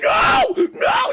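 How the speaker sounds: hammed-up high scream of no; Matt Damon. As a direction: cry out in mock horror. Imitates Matt Damon's horrified shouting.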